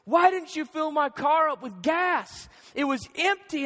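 retold quarrel, pushed up in pitch; mock arguing. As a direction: act out a spouse's indignant complaint. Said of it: "we're arguing back and forth".

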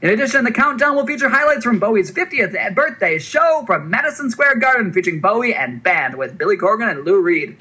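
high, excited carnival barker pitch; hype voice. Acted. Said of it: "use a hype voice".

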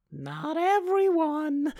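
slow, very high squeak; hammed-up high, hesitant admission; high put-on voice. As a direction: draw it out in a tiny high voice. Messenger's reply, acted out.

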